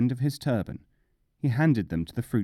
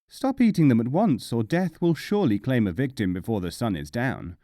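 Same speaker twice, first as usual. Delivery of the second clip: urgent warning; 3 dB louder than usual. Acted. Hillman warns urgently.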